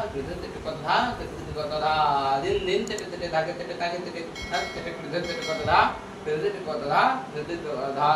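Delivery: rhythmic spoken tabla syllables; tabla bol recitation. Shown as a demonstration.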